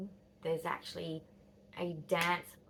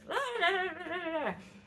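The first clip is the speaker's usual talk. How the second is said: imitated mum's outburst; 10 semitones higher than usual. Mum walks in and just bursts out.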